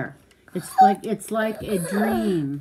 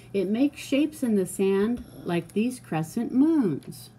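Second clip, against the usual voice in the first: measured, lilting picture-book read; reading to a child. Acted. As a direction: read it out clearly for a young listener.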